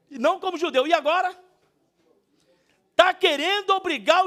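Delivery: high, loud confrontational rebuke; fiery preaching. Acted. Preacher voicing Paul confronting Peter, fiery rebuke. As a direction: preach it at full force, driving each accusation home. Reads Paul's rebuke at full force.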